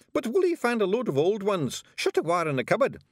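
high, cheery pixie voice; cheerful. A narrator's reading. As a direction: brag about it happily. Rob continues cheerfully.

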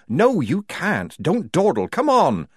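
firm orders, hurrying him on; commanding. Acted. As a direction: order him to keep moving. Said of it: "Polly commanded".

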